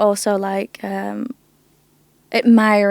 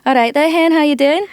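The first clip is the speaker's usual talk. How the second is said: higher, louder Scottish greeting in a Glaswegian lilt; playful Scottish accent showing off on request; 6 semitones higher, 5 dB louder than usual. Retold or imitated. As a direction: greet a friend like a Glaswegian local. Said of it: "Let's see your Scottish accent".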